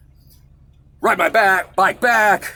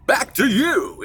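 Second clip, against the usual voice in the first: Laugh-In announcer; 9 semitones higher, slower than usual. Retold or imitated. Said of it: "that guy on Laugh-In".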